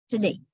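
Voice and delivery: "Today" as "tuh-DAY", weak first vowel; native pronunciation. Shown as a demonstration. Teacher repeating the native speakers' form, reduced schwa. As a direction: shrink the start of "Today" to a schwa. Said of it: "it is pronounced as today".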